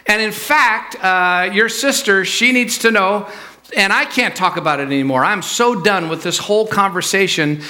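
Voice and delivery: mock parental exasperation; exasperated father. Acted quarrel, fed-up father.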